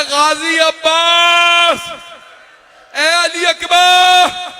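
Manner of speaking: high, slow, drawn-out shouted lament; anguished cry for help. Retold or imitated. Preacher voicing Imam Hussain crying out for helpers, high drawn-out wailing. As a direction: wail each call to the heavens, stretching every word. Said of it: "चीख चीख के कह रहे".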